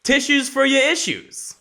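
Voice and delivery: high, playful title announcement; segment announcer. Pretend. Host unveils a new portion of the show, high announcer voice.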